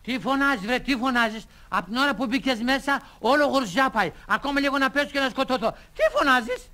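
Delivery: high-pitched comic indignation; worked-up waiter telling off a customer; indignant scolding. Acted. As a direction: scold the noisy customer, ending on a high squawk.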